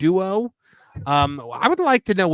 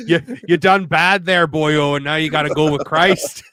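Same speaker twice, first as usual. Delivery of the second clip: Canadian bounty hunter sliding into Irish; Canadian-Irish accent; 3 dB louder than usual. Acted. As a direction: put on a muddled Canadian-Irish brogue. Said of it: "you made him Canadian and Irish".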